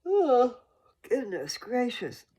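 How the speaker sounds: a high, loud oh stretched through a yawn. Real, not acted. Yawning through an exclamation while explaining the app. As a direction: yawn out the words slowly. Yawn interrupts her sentence.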